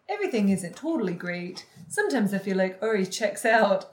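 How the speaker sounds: put-on Becca's Minnesotan accent gone slightly Scottish; attempted Minnesotan accent, slipping Scottish. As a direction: imitate a Minnesotan accent, drifting toward Scottish. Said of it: "I got a little Scottish".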